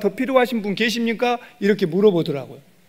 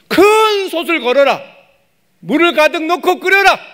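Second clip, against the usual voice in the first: prophet's command; 9 semitones higher, 6 dB louder than usual. Acted. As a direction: order the pot set boldly. Voicing Elisha's command.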